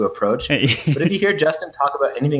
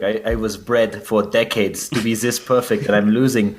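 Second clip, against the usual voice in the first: put-on Ice's accent. Podcaster imagines Ice ranting in his German accent. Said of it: "I just imagine Ice in his accent".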